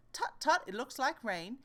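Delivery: a high, fussy tut tut over rain; mock fretful tut. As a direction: fuss about the weather like a worried man. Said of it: "with your umbrella saying".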